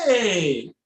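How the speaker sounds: high indignant squawk; mock outrage. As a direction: act shocked and affronted. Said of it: "I'm like".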